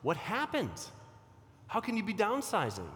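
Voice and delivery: imitating a worried friend's disbelief. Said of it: "You might say".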